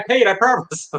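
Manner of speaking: high, pleading mock protest; pleading self-defense. Shopper defending himself to the line, pleading. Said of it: "I'm literally like".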